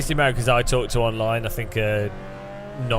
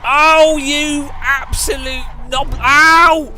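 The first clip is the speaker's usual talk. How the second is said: loud, high slow playful shout; mock outrage; 11 semitones higher, 6 dB louder, much slower than usual. Real, not acted. Gamer shouting at a friend who hit them, mock outrage. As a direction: yell at a friend in fun.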